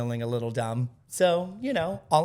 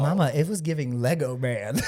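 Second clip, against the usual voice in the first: laughing. Real, not acted. Teasing, laughing.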